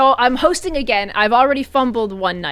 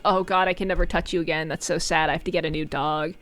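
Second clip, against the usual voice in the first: mock lament; 6 semitones lower, 7 dB quieter than usual. Retold lament over dirty dog.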